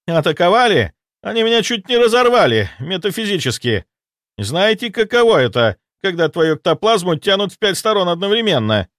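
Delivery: high, loud incredulous echo; outraged ghost soldier. Acted. Ghost soldier retorting to his master, high outraged voice. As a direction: throw the word back in disbelief.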